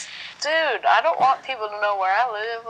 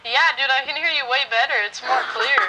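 speakerphone. Real, not acted. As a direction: voice over a phone speaker. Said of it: "That's why it's all echoey".

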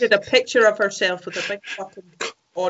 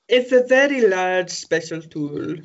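bad movie dubbing. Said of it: "Badly dubbed with seventies porn".

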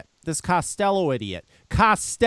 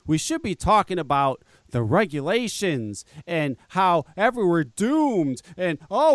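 mocking the critic. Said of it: "what he's trying to put out".

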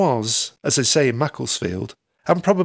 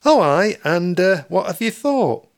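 wary reply; 6 semitones higher, 4 dB louder than usual. Acted. Narrator's own reply, wary.

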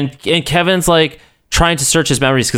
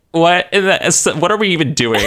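laughing disbelief; 3 semitones higher than usual. Retold or imitated. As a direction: laugh through the confusion. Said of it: "They're like".

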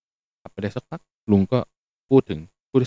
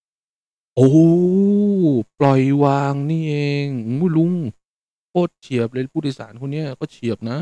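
loud high "oh!" of realization; amazed realization; 4 semitones higher, 5 dB louder, slower than usual. Retold or imitated. Narrator marveling at the passenger's wisdom, loud and high. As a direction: react like it just clicked.

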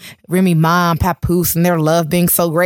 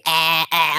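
lightly imitated catchphrase squawk of a rapper; 3 semitones lower, 3 dB quieter than usual. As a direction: toss out a mock "ah, ah". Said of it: "I was doing the Cardi B".

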